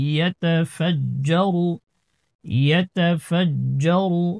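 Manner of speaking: ইয়াতাফাজ্জারু slowly, with the double j held firm; firm doubled jim. Shown as a demonstration. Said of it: "জিমকে একটু শক্ত করে ধরতে হবে".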